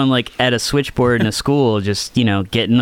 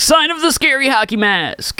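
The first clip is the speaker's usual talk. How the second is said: spooky voice; 13 semitones higher than usual. Acted. Spooky retake.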